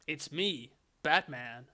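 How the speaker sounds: lightly voiced American hero, dropping at the end; Batman. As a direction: introduce yourself as a stock superhero. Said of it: "They all sound exactly the same".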